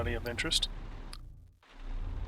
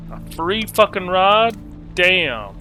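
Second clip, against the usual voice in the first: surprised; 5 semitones higher, 8 dB louder, slower than usual. Real, not acted. Streamer reacts to free ride.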